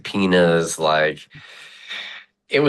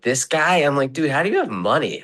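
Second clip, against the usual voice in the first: retold disbelief; 8 semitones higher than usual. Retold disbelief at friend's money.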